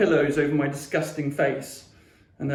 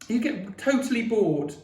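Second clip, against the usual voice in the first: raised, accusing tone; 7 semitones higher than usual. A narrator's reading. Sister to her brother at dinner, accusingly. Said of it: "like she was accusing me".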